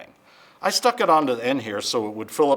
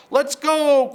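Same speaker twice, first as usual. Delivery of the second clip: very high, loud rooster cry; crowing rooster; 13 semitones higher, 6 dB louder than usual. Acted. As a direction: crow it out proudly. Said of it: "crowed Cocky Locky".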